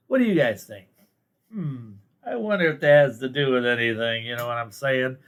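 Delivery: mock-innocent wondering, tongue in cheek; sarcastic. To viewers about who's in office, sarcastic. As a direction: ask it as if you really don't know. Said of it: "I'm being sarcastic".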